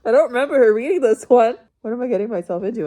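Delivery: rushed, loud, alarmed; fast worried quote. Retold or imitated. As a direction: blurt it out in a panic. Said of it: "and I was like".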